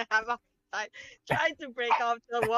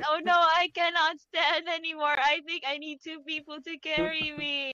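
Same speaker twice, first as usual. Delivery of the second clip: feigned collapse; 5 semitones higher than usual. Pretend. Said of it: "I try to, like, lie down on the floor".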